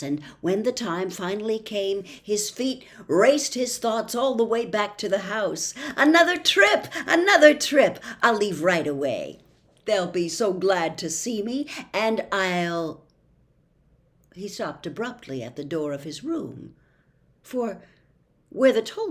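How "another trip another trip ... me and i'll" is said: put-on a boy thrilled at another adventure; excited. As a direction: burst out with delight at the news. Milo thrilled by another trip.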